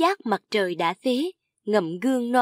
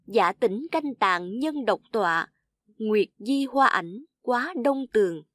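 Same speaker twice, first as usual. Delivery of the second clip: lightly lifted verse reading; measured classical poem reading; poem recitation. A narrator's reading. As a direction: recite the verse line by line, slightly raised.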